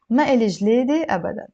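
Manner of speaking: measured lesson reading; careful model reading for students; a little slow. Shown as a demonstration. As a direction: read slightly slowly for learners. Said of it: "a little bit slow".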